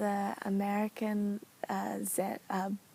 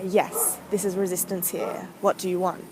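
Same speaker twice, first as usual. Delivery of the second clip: louder, curt answer as the resisting part; voice of resistance; 6 dB louder than usual. Acted. Journaling her inner resistance, it answers louder and curt. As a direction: speak up as resistance, put out at being called. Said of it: "Or however that voice speaks".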